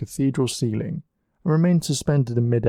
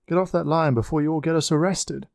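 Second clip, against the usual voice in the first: scolding shout; 5 semitones higher than usual. A narrator's reading. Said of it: "Leonardo shouted at her".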